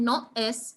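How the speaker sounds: "no es" with a small gap between no and es; no es with a break. Shown as a demonstration. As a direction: say "no es" as two separate words. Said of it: "instead of saying".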